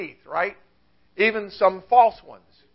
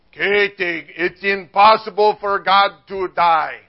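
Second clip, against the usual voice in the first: put-on German accent, big-speech delivery; Martin Luther; 4 dB louder than usual. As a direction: lecture in a mock German accent. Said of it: "went into a big speech".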